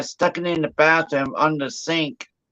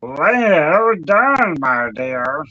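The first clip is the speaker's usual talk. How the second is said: congratulating; much slower than usual. Real, not acted. Congratulating after donation and music.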